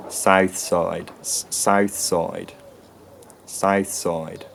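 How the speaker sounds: "South Side" in a High Tider accent, vowels starting far forward, repeated to try it out. Shown as a demonstration. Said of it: "would be pronounced something like".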